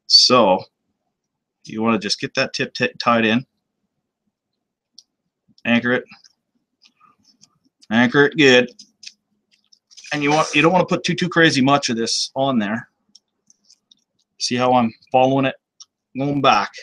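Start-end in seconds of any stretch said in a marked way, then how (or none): 5.6-16.7 talking while chewing gum. Real, not acted. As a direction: gum in the mouth. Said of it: "I can't believe I'm actually chewing gum right now".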